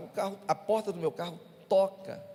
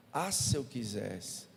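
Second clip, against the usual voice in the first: slow, softer muttered threat held back; if I only wanted; 6 semitones lower, 5 dB quieter, slower than usual. Retold or imitated. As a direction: swallow your anger. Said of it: "Aí eu respirei fundo".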